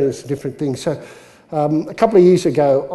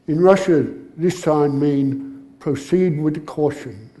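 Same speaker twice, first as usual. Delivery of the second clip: slow, deadpan put-on Russian accent; unbothered Russian accent, softening at the end; 4 dB quieter, slower than usual. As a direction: explain it slowly and calmly as a Russian. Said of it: "And the Russian goes".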